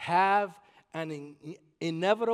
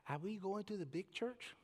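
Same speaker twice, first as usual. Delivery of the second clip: imitating mom; 12 dB quieter than usual. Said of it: "and she would say".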